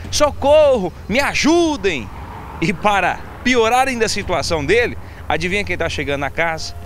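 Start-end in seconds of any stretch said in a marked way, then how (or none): 0.1-2.1 mock shout for help. Thief attacked by dogs in the street, mock shouting for help. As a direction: holler for help as the victim. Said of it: "Ele começa a gritar".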